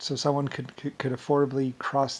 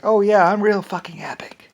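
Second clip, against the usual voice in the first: bitter whispered sarcasm, pitched higher; sarcastic whisper; 7 semitones higher, 10 dB louder than usual. Retold or imitated. Tearing himself down, in a sarcastic whisper. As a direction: sneer it at yourself under your breath. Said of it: "tear myself down".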